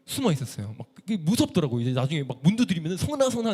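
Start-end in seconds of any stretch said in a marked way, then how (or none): 3.0-3.5 calling his name. Retold or imitated. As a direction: sing his name through the locked door. Knocking evangelist calling his name.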